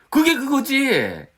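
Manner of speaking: high, drawn-out mock protest; dismissive objection. Preacher voicing their old mistaken thought, dismissive. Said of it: "뭐 이렇게 생각했는데".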